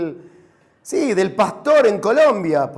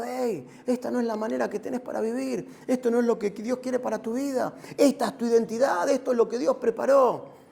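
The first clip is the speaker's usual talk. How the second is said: softer, encouraging talk; softened voice, as if counselling one person; gentle encouragement; 5 dB quieter than usual. Acted. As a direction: gently set someone straight to encourage them. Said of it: "Estoy para alentarlo".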